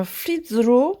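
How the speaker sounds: English "flip through" with a French accent. Real, not acted. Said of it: "mon anglais est toujours aussi pourri".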